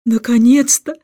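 king shouting joyfully at finding a kindred soul; joyful cry. Acted. King to the stranger: a half-hearted overjoyed shout. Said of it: "кричал он".

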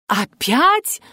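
rising startled question; gasped surprise. A narrator's reading. Golovko gasps at news of another death, startled. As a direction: gasp it out in surprise. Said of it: "ахнул Головко".

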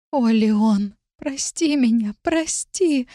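high, breath-held begging, only half whispered; anguished whispering plea. A narrator's reading. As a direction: plead helplessly, watching him suffer. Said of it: "шептала я". (страдальческая мольба, почти шёпотом)

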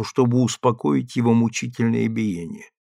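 plain reading voice

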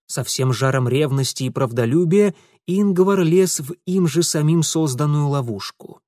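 ordinary delivery

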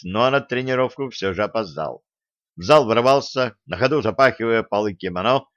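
usual speaking voice

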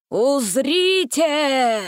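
put-on slow, booming old man's proclamation; drawn-out grand announcement; solemn old wizard proclaiming. A narrator's reading. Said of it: "провозгласил старик".

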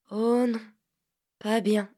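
"pas bien" lightly echoed back; echoing. Acted. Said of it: "dit en écho la voix de Vanka".

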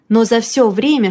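plain reading voice

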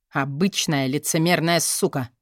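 low, scornful dismissal; contemptuous sneer. Acted. Boss sneering at his secretary, low contempt. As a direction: spit it out with contempt. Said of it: "презрительно усмехнулся тот".

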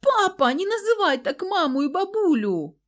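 put-on very high, loud child's voice standing up; brave little boy. A narrator's reading. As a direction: defy his father like a brave small boy. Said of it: "отважно дёрнулся".

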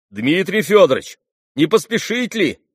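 громкий зов от дверей, повыше; крикнуть хозяину с порога; окрик. A narrator's reading. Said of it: "крикнул вдруг у дверей". (громкий окрик от дверей)

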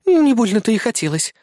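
a slightly embarrassed, dismissive huff; a touch of sulky scorn; embarrassed snort. A narrator's reading. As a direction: brush it off, slightly flustered. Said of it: "слегка смутившись, фыркнула Кри".

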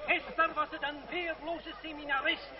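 declaiming to a crowd; public oration. Acted. André resuming his speech to the crowd, oration. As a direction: pick up the speech with force.

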